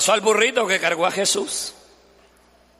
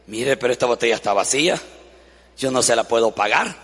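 lower, quick shopkeeper's objection; a hint of a fussy shopkeeper; lightly voiced shopkeeper; 10 semitones lower, faster than usual. Shopkeeper answering a customer about an empty bottle, lower and quick.

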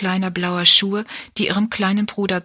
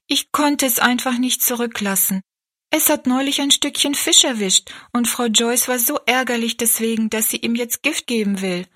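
put-on young girl; 4 semitones higher than usual. Rosalie explains saving kitten.

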